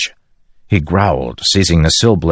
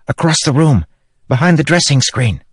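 high, airy little guide; high spren voice whispering directions in his mind; light spren voice; 10 semitones higher than usual. Acted. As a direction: point the way brightly. Syl guides Kaladin.

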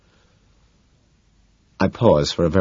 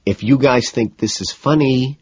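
slow, higher-pitched warning; 7 semitones higher, 3 dB louder than usual. A narrator's reading. McDermott warns his laughing friends, warning. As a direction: warn them in measured words. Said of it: "McDermott warns".

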